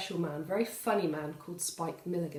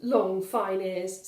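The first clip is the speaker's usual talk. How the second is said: put-on cheeky child; 2 semitones higher, 4 dB louder than usual. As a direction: answer back like a smug little boy. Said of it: "said Valdemar".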